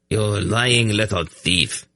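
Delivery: slow indignant jeer; mock outraged exclaim. A narrator's reading. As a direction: scold the partner.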